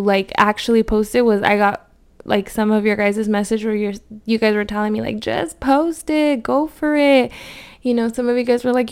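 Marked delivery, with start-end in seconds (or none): 5.2-7.3 encouraging. Retold or imitated. Quoting followers cheering her on.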